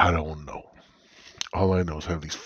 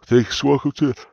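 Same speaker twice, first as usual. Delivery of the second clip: loud announcer welcome; 3 semitones higher, 7 dB louder than usual. Acted.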